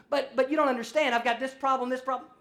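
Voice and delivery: hammed-up patient pressing the doctor; mock desperate patient. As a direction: plead with the doctor, getting worked up. Patient insisting, louder.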